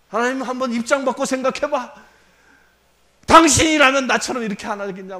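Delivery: a hint of a cheeky challenge; mock defiance. Believer defying God, mildly mock-angry. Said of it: "뭐 이러고 대들지 않습니까?".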